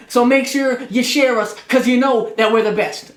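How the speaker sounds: loud hyped wrestling promo; Ric Flair promo voice. Pretend. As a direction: sell it like a pro wrestler on the mic. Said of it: "my inner Ric Flair".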